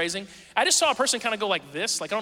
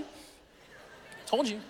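whispered told-you; 3 semitones higher, 9 dB quieter, much slower than usual. Retold or imitated. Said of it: "he's just".

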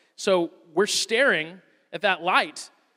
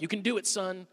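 coaching; 4 semitones higher than usual. Retold or imitated. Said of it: "I'm literally coaching him".

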